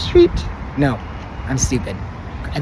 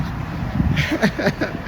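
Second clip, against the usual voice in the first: disbelieving laugh; 10 semitones higher than usual. Real, not acted. Laughing at the street mess.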